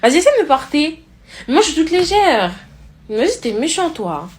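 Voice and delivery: put-on high, girlish pouty plea; cutesy whining. Girl coaxing Steve to lift her, cutesy whine.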